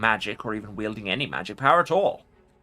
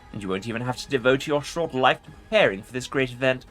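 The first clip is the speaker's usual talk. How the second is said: haughty ancient undead king; arrogant lich; 5 semitones higher than usual. Acted. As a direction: order them about from on high. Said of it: "Arrogance rings in the Lich's voice".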